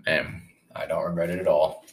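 talking around a bite of egg; mouth full. Real, not acted. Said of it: "Just put an egg in my mouth".

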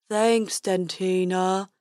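slow, drawn-out unicorn voice; silly unicorn. A narrator's reading. Unicorn thanks his dentist, slow silly voice. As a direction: drag the words out like a dopey creature.

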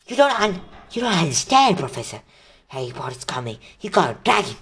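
high, whiny pleading student; desperate pleading. Acted. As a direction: plead frantically, trying to shift the blame. Malfoy pleads with McGonagall.

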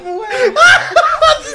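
risada descontrolada quase gritando; gargalhada aguda. Real, not acted. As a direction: perde o controle de tanto rir. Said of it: "O Alan tá passando mal". (gargalhada descontrolada)

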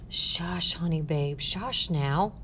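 calm her down tenderly; soothing hush. Acted. Ruth hushing the clinging girl, soothing.

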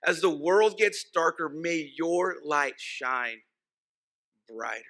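drawn out, each word weighed, fading at the end; slow reverent reading of a favorite line; slow savoring quote. Retold or imitated. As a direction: linger over the quote, letting it sink in. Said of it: "I just love that".

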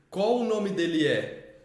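slow question landing on a final "é"; inverted child phrasing. Retold or imitated. Adult quoting the boy's inverted question, slowly drawn out. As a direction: draw out "qual", let "é" fall at the end. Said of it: "a frase toda invertida".

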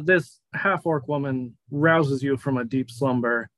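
unhurried, slow scene-setting; game master narration. Acted. Game master leading a player to the greenhouse, scene-setting narration. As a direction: draw out the phrases as you set the scene.

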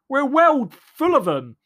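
unvoiced whispered punchline. Punchline to the audience, whispered. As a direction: drop to a breathy whisper.

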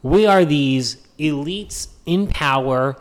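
mock elite liberal. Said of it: "classic Democrat dog whistle of".

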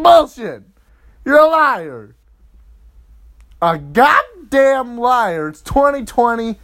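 high, loud, drawn-out shouting; angry accusation. Acted. Boyfriend calling girlfriend a liar, angry accusation. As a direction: shout her down in mock outrage.

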